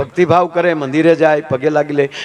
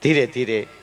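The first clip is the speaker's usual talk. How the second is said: soft mock timid officer; 3 semitones lower, 6 dB quieter than usual. A timid officer at the station, softly saying go easy. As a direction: softly coax the constables to go easy. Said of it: "એમ કે".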